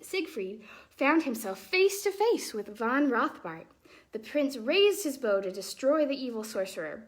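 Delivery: put-on lively, expressive read-aloud for children; storybook reading. A narrator's reading. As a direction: tell the tale like a bedtime story.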